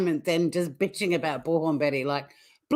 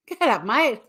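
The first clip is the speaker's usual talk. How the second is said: mock Australian dad, pitched up; lightly imitated Australian dad; 5 semitones higher than usual. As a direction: imitate an unbothered Aussie dad. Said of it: "The dad's very Australian".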